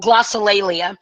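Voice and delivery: "Glossolalia" with every syllable clear; careful pronunciation. Shown as a demonstration. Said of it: "I think that's how you say it".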